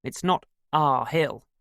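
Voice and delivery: lightly amused correction; laughing, amused. A narrator's reading. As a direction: say it slowly with a touch of amusement. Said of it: "he said, laughing".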